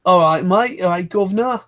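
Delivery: lightly put-on cockney "governor" British; mock British accent. Friend mocking American voice actors trying to be British, light mock British accent. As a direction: imitate a cringy fake British accent. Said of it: "something goes into my head like".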